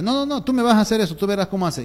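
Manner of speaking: mock stern father laying down the law; angry dad. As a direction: cut the child off with rapid orders. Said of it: "el papá se pone bravo y le dice".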